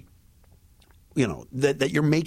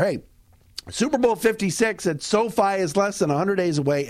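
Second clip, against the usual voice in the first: ad read. Acted. Host reads a sponsor ad.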